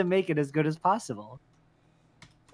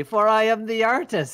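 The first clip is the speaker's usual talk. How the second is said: villain voice; 5 semitones higher, 3 dB louder than usual. Pretend. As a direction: proclaim it like a gloating villain. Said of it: "you have a villain voice".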